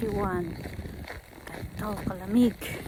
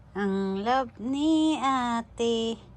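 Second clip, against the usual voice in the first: slow, sing-song pet talk; much slower than usual. Real, not acted. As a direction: coo at the dog slowly.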